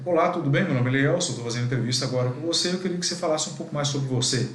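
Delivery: quick, lively greeting with a rushed middle; brisk, upbeat interviewer greeting; brisk speech. Shown as a demonstration. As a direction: speed it up to match a fast talker. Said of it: "vou dar um exemplo".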